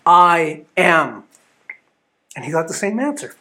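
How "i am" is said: slow, weighty declaration of authority; with commanding, measured conviction; great authority. Acted. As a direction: announce it firmly, word by word. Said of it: "he says with great authority".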